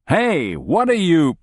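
high startled outburst; startled shout. Acted. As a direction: yelp in alarm as the door opens. Startled man interrupted by soldiers.

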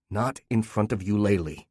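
level, cold echo of the earlier plea; wife mocking her husband with his cruelty. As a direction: throw her own words back. Wife throws his words back.

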